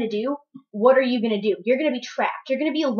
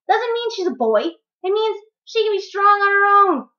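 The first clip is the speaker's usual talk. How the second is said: higher, slower, driving each word home; passionate emphatic; 10 semitones higher, 5 dB louder, slower than usual. Real, not acted. Arguing her daughter can be strong alone, heated and slow. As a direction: insist on it, heated and firm.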